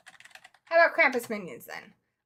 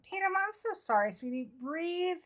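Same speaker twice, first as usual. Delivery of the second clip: soothing; 4 semitones higher, 9 dB quieter than usual. Real, not acted. Consoling an anxious, scared viewer.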